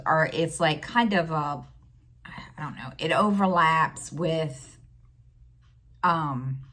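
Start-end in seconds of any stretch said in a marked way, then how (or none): 2.2-2.9 a quick unsure whisper tossed off mid-sentence; whispered aside. Real, not acted. Telling a friend about the package mix-up, whispered aside. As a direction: drop to a breathy whisper for a second.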